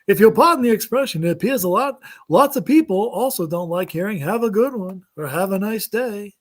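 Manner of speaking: lightly voiced standup bit; hint of a Seinfeld riff, rising. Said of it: "in a Seinfeld act voice".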